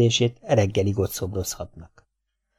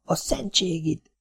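softer, slow hissed oath; hissed curse; 7 semitones higher, 7 dB quieter, slower than usual. Acted. The old general hisses a curse in the dark. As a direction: hiss it through the teeth. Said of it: "sziszent fel Mátyás hadvezére".

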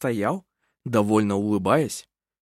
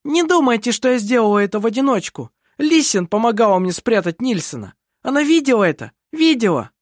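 high, louder, heated outburst; frantic, raised-pitch blaming; agitated accusation; 9 semitones higher, 4 dB louder than usual. A narrator's reading. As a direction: blurt it out, dragging your sister down. Cornered culprit blames her sister.

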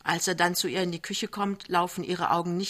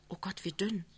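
involuntary exclamation; 2 semitones higher, 10 dB quieter than usual. A narrator's reading. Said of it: "sagt sie unwillkürlich".

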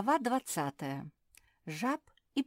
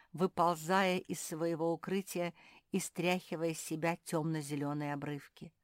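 plain reading voice

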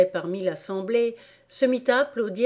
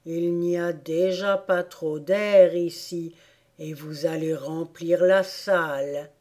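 slow Dormouse grumble; slow, grudging reproach; complaining Dormouse; 3 semitones lower than usual. Acted. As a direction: drag the complaint out slowly. Dormouse goes on complaining to Alice.

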